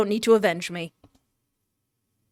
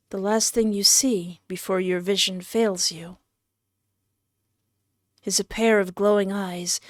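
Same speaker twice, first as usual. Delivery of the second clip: story narration; 3 dB quieter than usual. A narrator's reading. Narrator describing the player's dying vision, measured story narration. Reads the death scene aloud.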